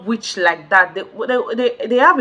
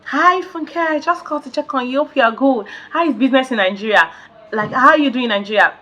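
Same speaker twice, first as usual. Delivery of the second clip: mocking sweet friend voice; 3 semitones higher than usual. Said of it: "you now coming to my D M saying".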